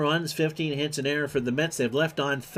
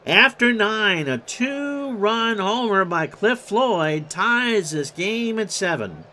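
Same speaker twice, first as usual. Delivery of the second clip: emphatic recap; 5 semitones higher, 3 dB louder, slower than usual. Real, not acted. Recap of tying homer.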